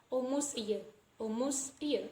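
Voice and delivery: "almost a year" as "almos a year"; silent T. Shown as a demonstration. Teacher showing how we pronounce it, "almost" without T. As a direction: run the S of "almost" on with no T. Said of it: "So we just pronounce as".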